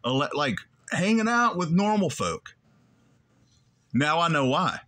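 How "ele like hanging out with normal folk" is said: mock incredulous. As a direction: stretch it out, baffled and high. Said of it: "But I remember thinking".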